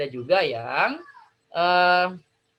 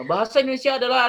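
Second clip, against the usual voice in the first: stiff reading aloud; 6 semitones higher, 4 dB louder, much faster than usual. Shown as a demonstration. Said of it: "itu kentara membacanya".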